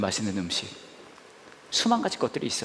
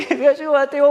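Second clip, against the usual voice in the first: sweet insisting staffer; 14 semitones higher, 8 dB louder than usual. Retold or imitated. Staffer insisting God prepared this, high sugary voice. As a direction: stretch it out sweetly through a laugh.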